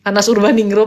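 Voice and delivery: loud call of the full name "Anas Urbaningrum". Real, not acted. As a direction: call "Anas Urbaningrum" loudly to get his attention. Calling a guest to speak. (memanggil "Anas Urbaningrum" dengan keras)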